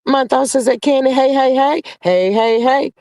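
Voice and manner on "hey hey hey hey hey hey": Fat Albert hey. Retold or imitated. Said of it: "It sound like Fat Albert".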